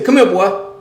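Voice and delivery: loud, high call to a dog. Retold or imitated. Owner calling his dog, loud and high. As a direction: call the dog back to you.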